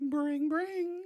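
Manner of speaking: put-on high, loud girly phone ring; girl voice. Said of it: "Was that your girl voice?".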